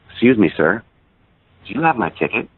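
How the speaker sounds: gently voiced polite request; gentle. Stoic stranger asking a passerby for a ticket, gently. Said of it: "he says gently to me".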